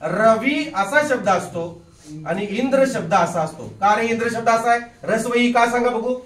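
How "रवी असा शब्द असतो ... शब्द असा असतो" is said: slow spelled out. Shown as a demonstration. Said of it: "लक्ष द्या".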